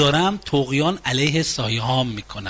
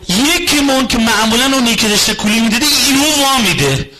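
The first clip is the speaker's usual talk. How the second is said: giving way; 6 semitones higher, 4 dB louder than usual. Acted. The carrier spouse finally collapses.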